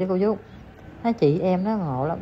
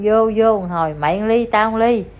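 mock drinking toast; 3 semitones higher, 5 dB louder than usual. Nhại cha con nhậu.

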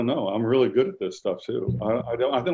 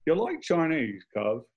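imitated Cockney driver, pitched up; Cockney accent; 6 semitones higher, slower than usual. Driver chatting to his passenger, imitated Cockney. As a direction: put on a London Cockney voice. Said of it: "my driver was this Cockney guy named David".

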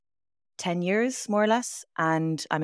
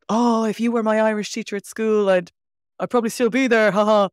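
higher, louder, gushing mock fan voice; imitating an enthusiastic fan; 5 semitones higher, 5 dB louder than usual. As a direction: play the fan who wishes she'd had you at school. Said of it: "I get a lot of".

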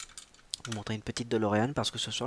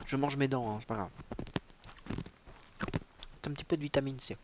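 sucking a throat lozenge; 6 dB quieter, faster than usual. Real, not acted. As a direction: mouth full of candy. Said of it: "bonbon dans la bouche".

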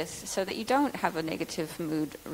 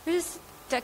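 lightly voiced harried developer; busy developer quote; 4 semitones higher than usual. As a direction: imitate a swamped maintainer. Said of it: "I've heard this before".

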